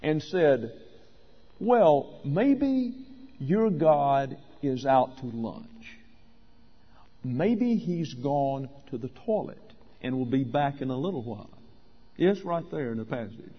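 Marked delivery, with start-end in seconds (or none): 1.6-11.6 mocking, teasing suggestion; mock them with feigned helpful guesses, trailing softer; Elijah. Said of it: "mocked them".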